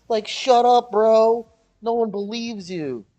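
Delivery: loud, high dismissal; scornful retort. Acted. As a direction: shoot the excuse down loudly. Scornful retort to the mocked man.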